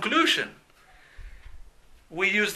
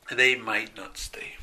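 softer model take; 6 semitones lower, 5 dB quieter than usual. Shown as a demonstration. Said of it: "said twice, second softer".

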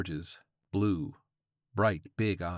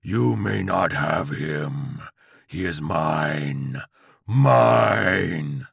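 slow, loud possessive demon; demonic Chihuahua cry; 3 semitones lower, 8 dB louder, much slower than usual. A narrator's reading. Chihuahua claims the old man, slow possessive demon howl. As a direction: draw out each word, building to a bellow. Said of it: "cried the Chihuahua".

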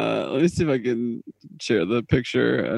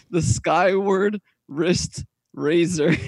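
slow, careful repeat through laughter; laughing; 3 semitones higher, much slower than usual. Real, not acted. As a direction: spell it out slowly, giggling. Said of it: "I'm trying not to laugh".

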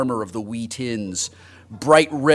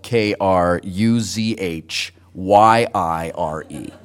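slow spelling out; 6 semitones lower, slower than usual. Shown as a demonstration. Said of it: "for those of you who do not have the benefit".

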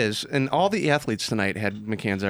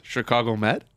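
innocent question. Retold or imitated. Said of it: "All I said was".

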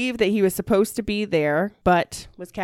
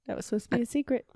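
breathy high stage whisper; 9 semitones higher, 6 dB quieter than usual. Real, not acted. Host whispering to her co-host about the hidden face. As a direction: whisper it like a secret aside.

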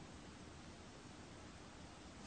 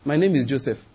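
softly, a near hush; quiet, tender self-reveal; hushed and gentle; 4 semitones lower, 5 dB quieter than usual. Retold or imitated. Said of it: "He said".

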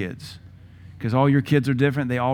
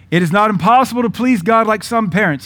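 forceful preaching; 8 semitones higher, 7 dB louder than usual. Real, not acted.

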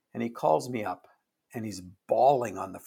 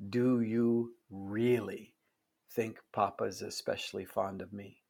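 retold tearful question; 4 dB quieter than usual. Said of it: "through her tears, she gets out".

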